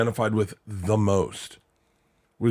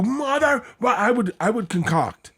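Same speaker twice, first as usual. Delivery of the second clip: mock exasperation; 10 semitones higher than usual. Retold exasperated outburst.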